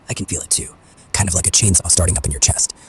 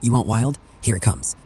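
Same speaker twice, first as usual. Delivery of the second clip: wild action hero monologue. Acted. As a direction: hit each line like a punch. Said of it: "just get wild with it".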